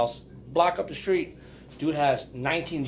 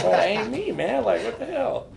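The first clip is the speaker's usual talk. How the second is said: higher mock protest; 6 semitones higher than usual. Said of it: "I'm like".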